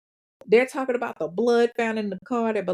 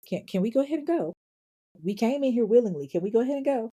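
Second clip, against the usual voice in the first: higher, hesitant nervous pleading; feeling the pressure; 4 semitones higher, faster than usual. Retold or imitated. Suspect asking her brother to leave, nervous under pressure. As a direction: imitate a suspect anxious to get out. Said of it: "she's starting to feel the pressure".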